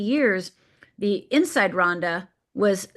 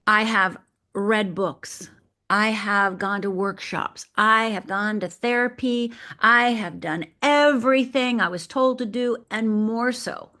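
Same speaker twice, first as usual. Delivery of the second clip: weary inner monologue; 2 semitones higher, slower than usual. Retold or imitated. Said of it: "I remember thinking to myself".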